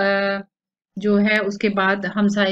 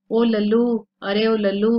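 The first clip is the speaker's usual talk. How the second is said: loud call to the servant, pitched up; 2 semitones higher, 4 dB louder than usual. Acted. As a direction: shout for the servant from inside. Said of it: "वो मुलाजिम को बुलाती है". (नौकर को ज़ोर से आवाज़ देना)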